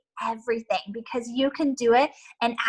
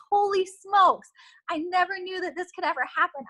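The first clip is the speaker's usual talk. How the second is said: imitating amazed recruit; 6 semitones higher than usual. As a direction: sound floored by your own success. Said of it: "you're gonna be like".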